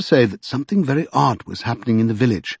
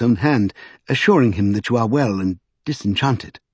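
courteous Mister Secundus; 3 semitones higher than usual. Acted. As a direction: gently coax with careful courtesy. Voices Mister Secundus in the story.

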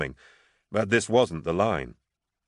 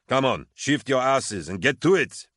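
high, urgent command; rousing order; 6 semitones higher, 4 dB louder than usual. A narrator's reading. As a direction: spur the squad into action. Officer ordering his men to move.

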